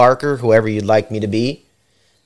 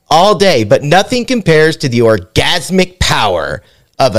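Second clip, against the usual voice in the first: hammed-up product pitch, rising in the middle; announcer ad read; 3 semitones higher than usual. Host reading a raunchy item description to contestants, mock announcer read. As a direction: sell the product like an over-the-top infomercial.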